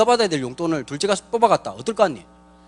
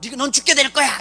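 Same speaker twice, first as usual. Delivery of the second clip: cursing; 5 semitones higher than usual. Retold or imitated. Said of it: "저주를 퍼부어가지고".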